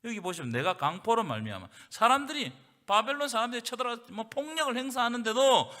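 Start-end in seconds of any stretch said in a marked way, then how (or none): none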